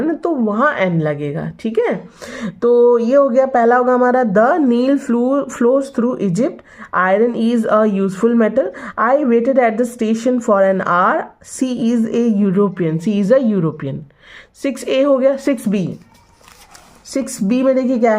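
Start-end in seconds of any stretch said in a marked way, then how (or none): 4.2-14.0 very slow, word by word, for the class; slow dictation reading. Shown as a demonstration. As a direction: spell it out slowly like a dictation. Teacher reads answers slowly. (बहुत धीमी, श्रुतलेख जैसी पढ़ाई)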